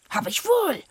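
high, loud croak of a dwarf; squawky dwarf insisting. Acted. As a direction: croak it back like a stubborn dwarf. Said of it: "krächzte der Zwerg".

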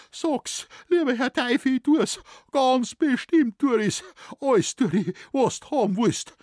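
mimicking the shoemaker promising anything; imitated sobbing plea. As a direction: whimper it out in a high voice. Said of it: "hat er geschluchzt".

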